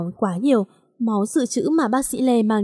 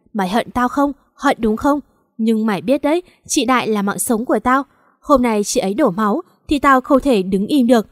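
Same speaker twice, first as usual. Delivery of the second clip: rising, heated vow before a portrait; grieving friend turning furious; vengeful anger. Acted. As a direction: swear revenge, voice climbing. Cường vows revenge at portrait.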